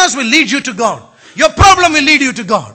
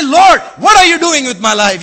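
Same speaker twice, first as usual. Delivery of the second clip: shouted prayer; 2 semitones higher, 5 dB louder than usual. Acted. Preacher voices prayer cry.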